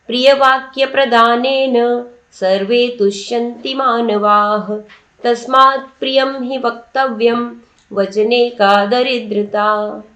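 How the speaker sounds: measured, slow chanting of Sanskrit verse; steady Sanskrit recitation, lingering on the last words; shloka recitation. Shown as a demonstration.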